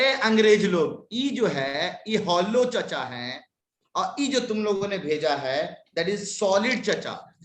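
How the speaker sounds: put-on slow, drawn-out rustic Hindi accent; put-on countryside Hindi, leisurely; mock rustic Hindi accent. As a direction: play a village uncle with a rustic Hindi accent. Playful rustic speech addressing "English people.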